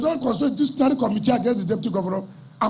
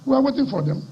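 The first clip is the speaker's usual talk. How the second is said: firm warning; 4 semitones higher than usual. Real, not acted. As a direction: say it as a challenge, strong. Warning rival repeated twice.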